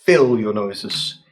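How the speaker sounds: slow, hushed scene setting; game master narration. A narrator's reading. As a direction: set the scene slowly, with suspense. GM describes the dungeon.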